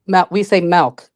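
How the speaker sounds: "milk" said as melk, with an e vowel. Shown as a demonstration. Caller showing how locals say milk as melk. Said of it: "M E L K instead of M I L K".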